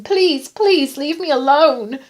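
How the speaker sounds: loud, high, drawn-out plea; begging. A narrator's reading. Patient begging to be left alone, desperate. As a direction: beg desperately, stretching the words. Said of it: "she begged him".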